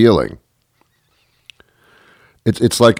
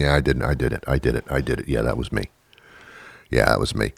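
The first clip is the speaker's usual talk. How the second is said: mock confession; 9 semitones lower, 9 dB quieter, faster than usual.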